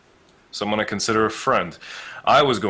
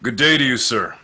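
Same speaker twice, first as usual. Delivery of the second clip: courteous greeting, a touch raised; very polite; faster than usual. Acted. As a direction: greet the stranger with exaggerated politeness. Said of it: "very politely".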